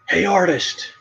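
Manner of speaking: a stranger hollering at a passing artist; retold yell. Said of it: "He was yelling at me".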